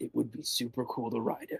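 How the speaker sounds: secretive whisper, as if close into an ear. Game master voices a character whispering in a player's ear, whispered in your ear. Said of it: "he whispers in your ear".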